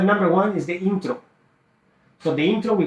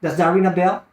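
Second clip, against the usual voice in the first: "ring a bell" asked as a real question; questioning tonality; 3 semitones higher, 4 dB louder than usual. Shown as a demonstration. Sales coach modelling a call to a seller, questioning tonality. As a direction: put a question mark on "bell". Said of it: "question mark".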